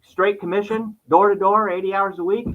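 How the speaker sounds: sketchy imitated English accent. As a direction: still the shaky English accent, pitched high. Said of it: "in an English accent".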